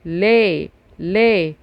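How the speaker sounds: "لا" said slowly and clearly; sound demo. Shown as a demonstration. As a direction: sound out "لا" for the class. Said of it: "صوته لا".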